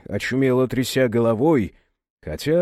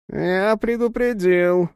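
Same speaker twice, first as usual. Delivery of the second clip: slow, higher menacing hiss through teeth; through gritted teeth; 6 semitones higher, slower than usual. A narrator's reading. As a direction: spit it through clenched teeth, slowly. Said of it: "сквозь зубы процедил мужик".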